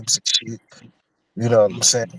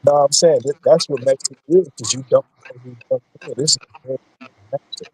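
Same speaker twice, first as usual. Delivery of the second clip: muffled, bad phone line. Real, not acted. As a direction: voice muffled and cutting out. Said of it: "you sound muffled".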